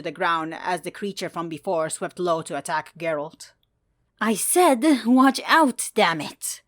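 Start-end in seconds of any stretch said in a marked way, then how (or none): 4.2-6.6 louder, higher, through gritted teeth; mock angry yell. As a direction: snap at him to watch out. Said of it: "glared ... through gritted teeth".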